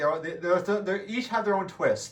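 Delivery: stuttering, stammering speech. Speaker explaining a game they played a couple months ago, stuttering. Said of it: "I'm stuttering right now".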